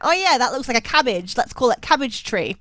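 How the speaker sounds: a light Australian accent on the mock settlers; casual Australian accent, mocking the Europeans. Mocking European settlers naming the tree, light Australian accent. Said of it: "I gave the Europeans an Australian accent".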